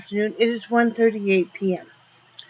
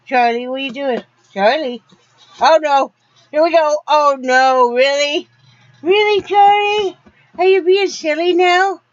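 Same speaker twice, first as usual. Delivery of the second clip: higher, loud singsong at the dog; teasing the dog who is acting silly, higher singsong; 7 semitones higher, 7 dB louder than usual. Real, not acted. Playful baby talk to dog.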